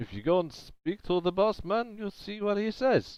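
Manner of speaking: put-on heavy Russian accent with Italian overtones, very high. A character answers another speaker, in a very Russian accent with Italian overtones. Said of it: "He says in a very Russian accent with Italian overtones".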